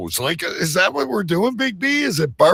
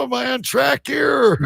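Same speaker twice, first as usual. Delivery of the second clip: excited shout; 7 semitones higher than usual. Real, not acted. Joking, asks if he's got it.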